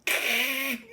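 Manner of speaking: imitated hissy spit; weird spitting noise. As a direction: spit out an odd little noise. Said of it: "it's some weird fucking sound".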